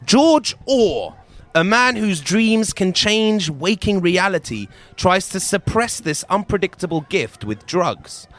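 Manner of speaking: slow, grand movie trailer voice; dramatic trailer read. Shown as a demonstration. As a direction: announce it like a film trailer. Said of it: "I'm gonna read the synopsis".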